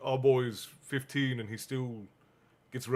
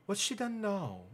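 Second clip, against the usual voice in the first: higher, softer, a touch of sympathy; lightly voiced caring girl; sympathetic Hermione; 8 semitones higher, 5 dB quieter than usual. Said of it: "asked Hermione sympathetically".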